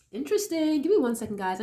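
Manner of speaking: stuffy nose from a cold; nasal voice. Real, not acted. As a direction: talk through a blocked nose. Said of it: "my nasally sounding voice".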